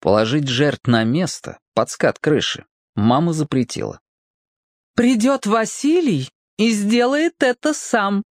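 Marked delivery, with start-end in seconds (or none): 5.0-8.2 firm voice. A narrator's reading. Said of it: "таким голосом".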